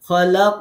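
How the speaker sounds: খলাক with a loud bounced ক at the end; qalqala demo. Shown as a demonstration. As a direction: hit the final ক of খলাক hard. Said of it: "কফের মাখরাজ".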